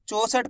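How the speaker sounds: चौसठ said as "cho-sath"; wrong o vowel. Shown as a demonstration. Teacher showing the mistake in चौसठ, an o instead of au. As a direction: flatten the au of चौसठ into a pure o. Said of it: "ओ की मात्रा का उच्चारण निकल जाएगा".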